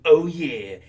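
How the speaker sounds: hyped gamer bro reading a card. Acted. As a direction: read it like an excited gamer. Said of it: "Did you need to read it in that voice?".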